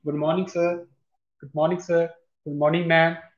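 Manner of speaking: soft, courteous greeting; polite greeting. Shown as a demonstration. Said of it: "ਇਸ ਢੰਗ ਨਾਲ ਤੁਸੀਂ ਬੋਲਣਾ ਗਾ". (ਨਿਮਰਤਾ ਨਾਲ ਸਲਾਮ)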